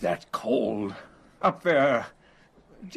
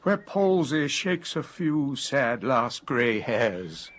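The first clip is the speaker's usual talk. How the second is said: poem recitation; slower than usual. Acted. Friend continues the recited ode.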